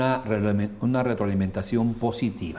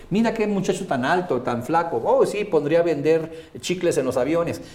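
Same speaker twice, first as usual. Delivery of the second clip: mocking joke; 5 semitones higher than usual. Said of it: "Es decir".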